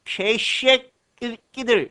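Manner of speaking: 개쉐끼들 drawn out with a hard, tense "kki"; strong pronunciation. Shown as a demonstration. Teacher exaggerating the term into a curse, strong pronunciation of 개쉐끼들. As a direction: slowly lean into 개쉐끼들, hardening it to "gae-shwe-kki-deul". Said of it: "발음을 강하게 하면".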